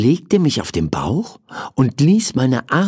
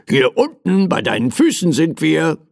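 mildly impatient teddy, pitched up; impatient call; 5 semitones higher than usual. Acted. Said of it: "rief mein Teddy ungeduldig". (ungeduldig rufend)

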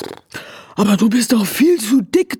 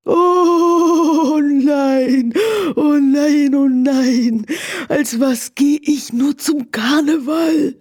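wailing; 4 semitones higher, slower than usual. Acted. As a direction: cry it out in despair. Horse lamenting. (laut klagend)

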